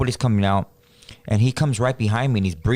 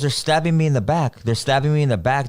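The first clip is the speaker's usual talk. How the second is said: terrified cry; 6 semitones higher than usual. Retold or imitated. Cousin hallucinating in the car.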